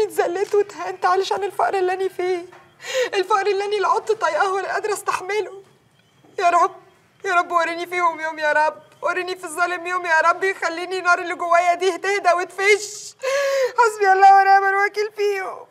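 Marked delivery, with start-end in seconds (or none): 6.4-15.7 a wronged woman cursing her oppressors; tearful plea. Acted. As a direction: plead to God through tears, louder at the end. Tearful prayer against oppressors.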